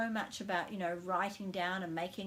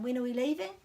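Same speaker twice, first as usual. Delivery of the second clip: asking a question; 4 semitones higher, 4 dB louder, faster than usual. Acted. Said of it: "the answer to a question".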